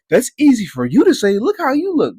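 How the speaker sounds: high mocking voice; mock heckler. Fat guy behind him heckling, high mock voice. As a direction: squeak out the fat guy's jab.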